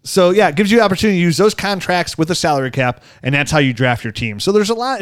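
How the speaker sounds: upbeat sponsor read, leaning on the brand name. Acted. Host reading the sponsor spot to listeners, upbeat ad voice. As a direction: sell it like a podcast ad spot.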